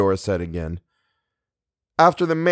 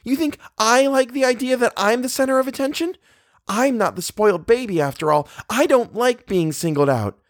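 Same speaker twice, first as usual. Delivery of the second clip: very high, indignant outburst; angry near-shout. A narrator's reading. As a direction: protest angrily, almost shouting, pitched right up. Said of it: "Eleanor almost shouted".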